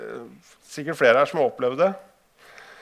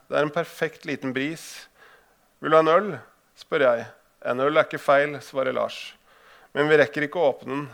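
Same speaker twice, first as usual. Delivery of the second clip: measured reading-aloud voice, a touch more careful than his chat; story narration. Acted. Author reading his fishing story aloud to the audience, measured narration. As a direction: read the passage to the audience like a storyteller.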